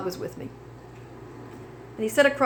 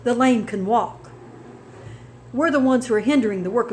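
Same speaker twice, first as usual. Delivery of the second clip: preaching. Acted. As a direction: build a testimony into a sermon. Testimony turns to preaching.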